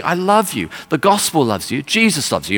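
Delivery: imitated street preacher, pitch lifted; street preaching. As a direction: plead like a preacher to one listener. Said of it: "He's preaching like this on the streets".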